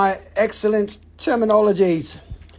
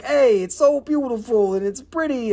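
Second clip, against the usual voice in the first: lightly hammed-up gushing praise; a hint of a fawning seller; mock gushing; 4 semitones higher than usual. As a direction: gush over it half-jokingly. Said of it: "I just see it all funny".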